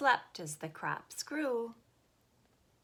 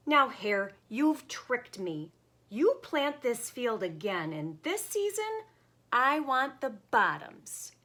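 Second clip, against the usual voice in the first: indignant Bear; 5 semitones higher, 5 dB louder than usual. Acted. Bear protests trick.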